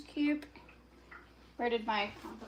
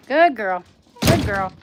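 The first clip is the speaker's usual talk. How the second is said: loud, firm praise at usual pitch; praising the dog; 15 dB louder than usual. Real, not acted. Owner to dog coming inside, loud praise. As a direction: praise the dog loudly, falling at the end.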